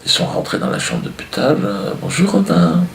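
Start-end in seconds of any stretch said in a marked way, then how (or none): 2.0-2.8 very high, sugary greeting; mock cheery visitor. Charity worker greeting a sick boy, mock cheery. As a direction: coo at a child in mock sweetness.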